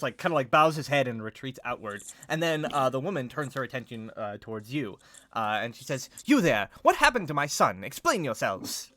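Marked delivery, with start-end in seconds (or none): 6.3-8.9 high, loud, stern challenge; sharp raised voice, slowing on the command; imperious demand. Acted. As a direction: demand answers like a haughty mother. Angry mother rounds on the party.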